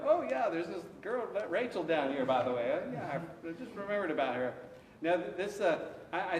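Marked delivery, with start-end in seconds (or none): 0.0-4.5 a mock offhand God, pitched higher; lightly voiced God recalling something as an afterthought; absent-minded God. Teacher playfully voicing God suddenly remembering Rachel, offhand and higher. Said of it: "it's like".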